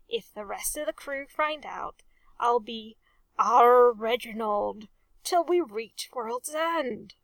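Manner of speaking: a hint of a hot, urgent whisper, slowing on the last words; heated whisper. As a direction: hiss the warning under the breath, stretching out the end. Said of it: "he whispered hotly".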